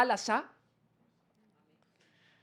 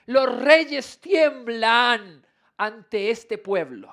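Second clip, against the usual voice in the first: slow, stretched reading with a strong opening word; solemn public Bible reading; scripture proclamation; 3 dB louder than usual. Acted. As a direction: proclaim each command slowly. Voices God's warning from scripture.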